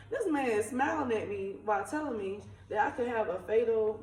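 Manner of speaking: a real incredulous laugh spilling into the sentence; chuckling at how absurd it was; laughing in disbelief. Real, not acted. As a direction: laugh through the words, half amazed. Laughing at the doctor's smile.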